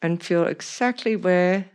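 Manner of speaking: talking around a pin; pin in mouth. Real, not acted. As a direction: speak with a pin held in lips. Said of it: "I'm speaking with a pin in my mouth".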